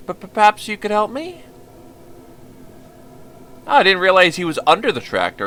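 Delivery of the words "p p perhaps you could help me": nervous simple-minded fiddler, apologetic and eager; timid stammering boy. Acted. Violinist pouring his heart out to the visitor, timid stammer. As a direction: stammer out your excuses to the stranger.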